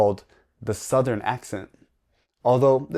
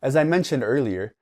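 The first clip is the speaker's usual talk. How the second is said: ordinary talk, nothing marked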